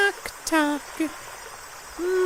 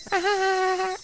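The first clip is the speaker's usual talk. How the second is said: soft weird laugh; 5 dB quieter than usual. Acted. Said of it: "Rena laughs weirdly".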